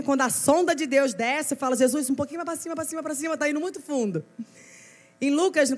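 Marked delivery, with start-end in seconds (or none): 1.7-4.2 quick, higher-pitched mock pleading; playfully acted nervous protest; squirming plea. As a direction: hurriedly beg him to ease off. Playful plea to Jesus probing too deep.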